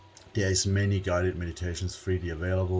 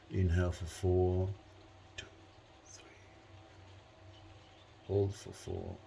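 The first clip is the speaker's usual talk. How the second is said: measured breathing cues with long pauses; breathing-exercise guide, numbers barely voiced; guided breathing count; 10 dB quieter than usual. Real, not acted. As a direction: count the breaths very softly, leaving space. Leads timed breathing exercise.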